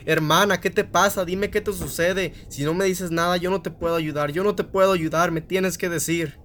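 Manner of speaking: high, loud, begging his sister to speak; a desperate boy losing his mind, pleading; frantic pleading brother. Acted. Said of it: "se volvía loco y le preguntaba". (hermano suplicando, desesperado y agudo)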